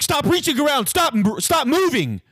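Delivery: high, strained mock yell; driver yelling. Driver yells at the rider reaching for his phone, high panicked yell. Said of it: "He yells at me".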